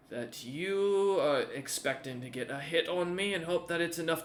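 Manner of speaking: loud, swaggering warrior chief; vain menacing warlord. Acted. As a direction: threaten with vanity and glee. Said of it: "looks you up and down and goes".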